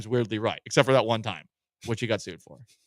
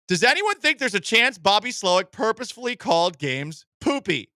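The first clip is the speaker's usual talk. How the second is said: higher-pitched read-out of a fan's post; reading a post aloud; 5 semitones higher than usual. Acted. Reads out a Redditor's post.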